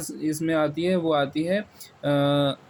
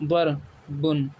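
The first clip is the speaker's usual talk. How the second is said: ضربن stretched slowly as dar-bun; slow model reading; much slower than usual. Shown as a demonstration. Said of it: "اس میں فرق ہے".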